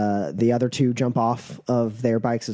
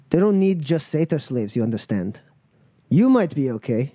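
lightly voiced gang leader, sceptical; a hint of a tough, unimpressed boss; Natasha, unamused; 3 semitones higher than usual. Crew leader doubting the travellers will manage alone, unamused.

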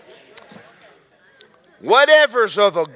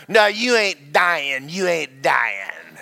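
rebuking wife; 3 semitones lower than usual. Retold or imitated. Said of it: "she was in there rebuking me".

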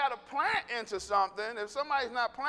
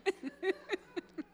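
high, soft mock sobs; mock crying; 8 semitones higher, 5 dB quieter than usual. Preacher acts out his own crying spell, mock sobbing. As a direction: pretend to break into sobs. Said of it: "Why am I crying?".

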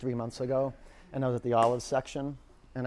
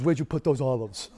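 mock angry; 5 dB louder than usual. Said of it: "he was pissed off".

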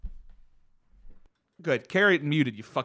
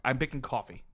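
hushed whisper; 6 dB quieter than usual. Real, not acted. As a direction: breathe the answer out unvoiced. Whispered answer after fumbling.

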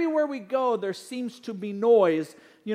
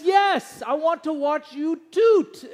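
put-on high, loud child's shout; a little girl cheering yes; imitating excited daughter; 5 semitones higher, 6 dB louder, much slower than usual. Daughter shouting yes at dad, high and loud. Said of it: "And she says".

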